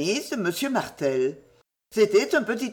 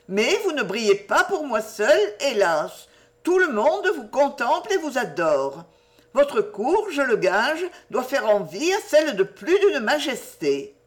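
put-on higher-pitched girlish reading aloud; Jenny reciting a love letter; 5 semitones higher than usual. Jenny reading her admirer's letter to Lucienne, girlishly declamatory. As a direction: declaim the flowery praise in a girl's voice.

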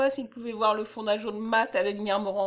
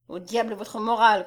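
raised voice, a mild shout; angry cry; 4 dB louder than usual. Acted. Womble dismissing Messner's moralizing, crying out angrily. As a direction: throw it back at him angrily. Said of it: "cria l'autre".

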